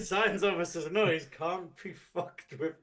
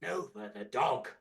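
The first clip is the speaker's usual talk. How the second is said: booming villain proclaiming from a throne; louder, grand and menacing; booming demon lord; 3 semitones higher, 3 dB louder than usual. Acted. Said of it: "presence of Doctor Chaotica, ruler of the cosmos".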